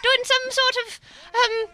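put-on halting, muddled mix of English accents; an American faking a northern-south English accent; made-up northern-south accent. American confessing to the crowd, made-up mixed English accent. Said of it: "accent that I've made up in my head".

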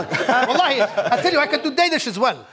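put-on Arabic accent. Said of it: "I'm gonna keep talking in the Arabic accent".

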